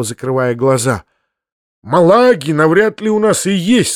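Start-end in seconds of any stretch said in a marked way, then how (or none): 1.8-3.9 higher-pitched anxious uncle; worried. A narrator's reading. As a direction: fret aloud, a touch uneasy. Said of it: "сказал дядя с беспокойством".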